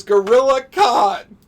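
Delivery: loud, drawn-out hammed-up proclamation; mock dramatic shout. Player heralding a favorite gorilla villain, mock dramatic shout.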